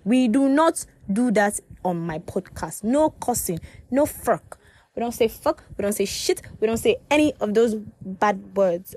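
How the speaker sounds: firm, emphatic mock telling-off; mock scolding. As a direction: lay down the rules with playful sternness. Mock-scolds herself for swearing.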